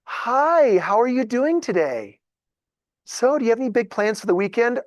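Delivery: mock-cheerful bank teller small talk. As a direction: put on the forced-friendly teller greeting. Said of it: "the voice that the teller uses".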